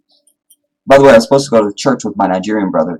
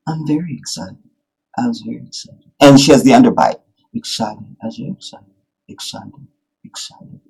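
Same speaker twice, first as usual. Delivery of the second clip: mock the wife's unconvinced mumbled "excited"; wife's fake excitement; 3 semitones higher than usual. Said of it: "That's my wife, y'all".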